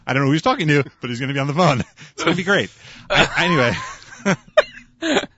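usual speaking voice

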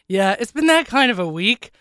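raspy sick voice; rough, congested throat; hoarse voice. Real, not acted. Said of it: "I actually do sound this bad".

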